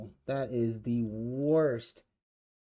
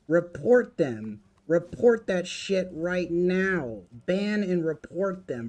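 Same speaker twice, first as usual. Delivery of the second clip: loud, high, furious shouting at chat; furious yelling; 4 semitones higher, 5 dB louder than usual. Real, not acted. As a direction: blast the troll with real outrage. Streamer raging at chat message.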